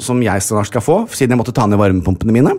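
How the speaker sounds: understated, bitter aside; passive-aggressive bitterness. Real, not acted. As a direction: slip in a mildly resentful dig. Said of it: "En viss bitterhet i passiv aggressivitet i stemmen der". (lett bitter, passiv-aggressiv tone)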